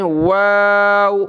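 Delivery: واو said slowly with rounded lips. Shown as a demonstration. Teacher showing pupils the lip shape of واو. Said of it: "واو پر ہونٹ گول کرتے ہیں".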